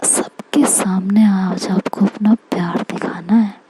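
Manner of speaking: hushed demand. Acted. Shruti demanding a public confession, in a hushed whisper. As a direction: whisper the demand close to his ear.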